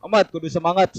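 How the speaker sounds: teacher calling out encouragement; rallying the class. Real, not acted. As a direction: pump the class up.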